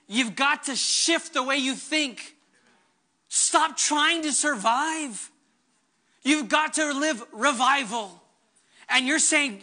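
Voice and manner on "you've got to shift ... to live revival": slow, weighty divine command; voice of God. Acted. Pastor voicing God to the congregation, slow and weighty. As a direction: lay it down slowly like God speaking. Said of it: "he's saying".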